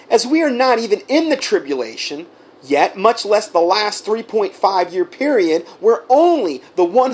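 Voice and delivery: reading his reply to Jim, hammering each charge with indignation; fired up. Real, not acted. Righteous indignation to Jim. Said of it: "kind of get me fired up".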